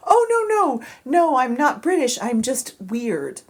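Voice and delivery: lightly put-on British accent. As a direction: apologize in a British accent, slowing at the end. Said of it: "I can't do the accent".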